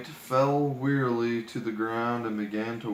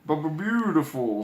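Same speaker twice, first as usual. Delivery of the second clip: sigh; 4 semitones higher, 4 dB louder than usual. Acted. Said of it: "sighed Bashful".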